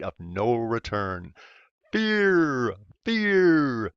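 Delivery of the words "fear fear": high, mock-ominous fear, fear; mock dramatic fear. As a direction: parody scaremongers saying fear. Mocking fear-mongering.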